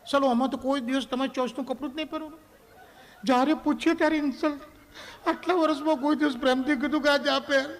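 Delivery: high, complaining wife voice; offended wife. Acted. Wife complaining to husband about his saree advice, high and whiny. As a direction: whine it up high as the hurt wife.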